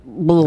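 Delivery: low, short noise of revulsion; mock gag of disgust; disgusted bleh. Picturing ugly nails near the mouth, disgusted.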